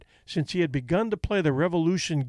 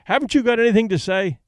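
higher, louder angry challenge; snarling promoter; 7 semitones higher, 5 dB louder, faster than usual. A narrator's reading. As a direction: snarl it at the silent fighter. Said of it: "the fight promoter snarled".

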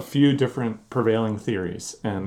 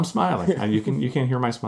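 audible grin, high and bright; smiling voice; 4 semitones higher, 3 dB louder than usual. Real, not acted. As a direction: talk through a big smile. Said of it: "I can hear your smile".

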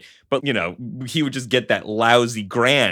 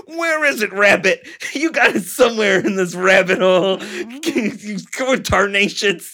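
squeaky cartoon gunman hollering; Looney Tunes voice; 12 semitones higher than usual. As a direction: yell it like a cartoon varmint hunter. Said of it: "so Looney Tunesy".

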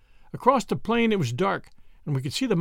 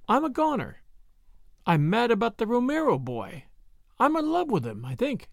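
higher-pitched woman's voice, helplessly smitten; Brett, lovestruck; 6 semitones higher than usual. Acted. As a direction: confess it as a lovelorn woman, pitched up. Voices Brett confessing her love.

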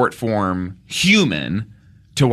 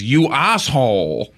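lightly put-on accent imitating a woman; mock outburst in an imitated accent, rising then dropping; Tia impression accent. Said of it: "for the accent".

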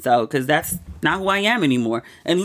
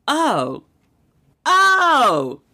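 emotional cry; 12 semitones higher, 3 dB louder than usual. Retold or imitated. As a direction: voice cracks high and loud on "oh". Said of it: "sat and cried".

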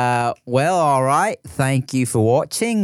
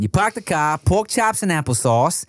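Boston accent; 3 semitones higher than usual. Shown as a demonstration. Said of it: "That's Boston".

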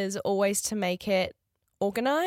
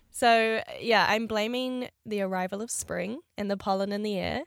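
nasal voice. Real, not acted. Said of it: "I sound a little nasally".

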